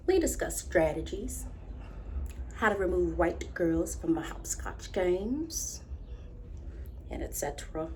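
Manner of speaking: low, hushed confession; soft and secretive, as if under the covers; confiding a secret. Acted. Confides childhood secret lover.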